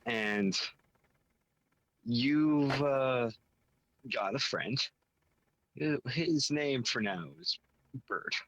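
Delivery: measured scene-setting with deliberate pauses; game story pitch. Acted. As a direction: lay out the premise piece by piece, lifting key phrases.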